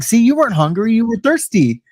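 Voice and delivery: lightly voiced cellmate delivering the punchline; imitating the cellmate proving his point; cellmate's verdict. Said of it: "He's like".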